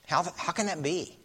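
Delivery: lightly voiced doubting Pharisee; puzzled Nicodemus. Preacher voicing Nicodemus puzzling over Jesus, mildly baffled.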